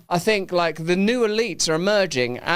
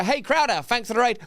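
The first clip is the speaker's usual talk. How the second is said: mock shout-out; 5 semitones higher than usual. Shown as a demonstration. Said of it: "Anyway, say".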